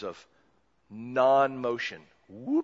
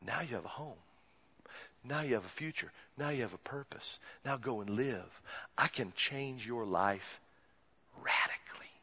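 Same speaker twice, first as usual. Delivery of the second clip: gentle promise; 2 semitones lower, 9 dB quieter than usual. Acted. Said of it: "He says".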